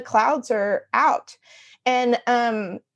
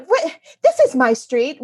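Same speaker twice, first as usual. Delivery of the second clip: retold road-rage protest; indignant, lightly acted outburst; mock indignation; 3 semitones higher than usual. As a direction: protest like an affronted resident. Indignant outburst at pickup driver, retold.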